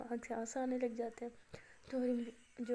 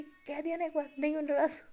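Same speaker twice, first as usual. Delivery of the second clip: raised, exasperated "I'm not angry"; higher and louder, fed-up denial; irritated insistence; 4 semitones higher, 6 dB louder than usual. Acted. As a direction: snap back that you're not upset. Irritated girlfriend insists she's fine.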